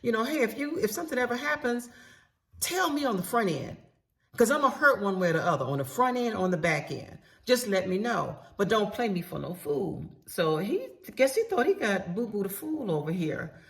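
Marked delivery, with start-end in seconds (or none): 0.2-10.0 higher, pointed warning to her husband; stern warning. Retold or imitated. Wife warning husband to be upfront, pitched-up stern warning. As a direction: lay down the rule, firm and pitched up.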